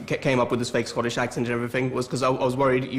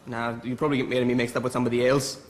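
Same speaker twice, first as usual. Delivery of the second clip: put-on Scottish accent; 3 dB quieter than usual. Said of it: "learn the Scottish accent".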